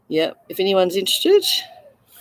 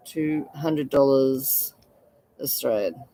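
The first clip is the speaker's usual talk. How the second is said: slow emphatic repeat; 3 semitones lower, 4 dB quieter, slower than usual. Shown as a demonstration. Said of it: "Willing to let this one go for two hundred dollars".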